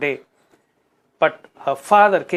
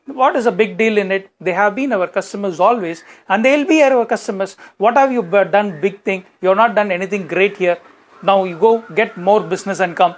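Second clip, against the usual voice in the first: dismissive boss; 3 semitones higher than usual. Retold or imitated. Manager belittling Anand's big win, raised and dismissive. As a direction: wave away his achievement. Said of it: "Then he said".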